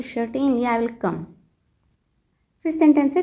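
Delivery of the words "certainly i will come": very slow, teacherly model phrase; slow model sentence. Shown as a demonstration. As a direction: spell it out slowly for learners. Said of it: "तो आप कहिए". (बहुत धीमे, सिखाने वाले अंदाज़ में)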